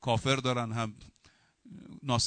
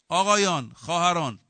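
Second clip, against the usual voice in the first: loud, raised call to the congregation; 3 semitones higher, 8 dB louder than usual. Real, not acted. Preacher addressing brothers and sisters in the congregation, calling out loudly. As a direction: call the room to attention, high and loud.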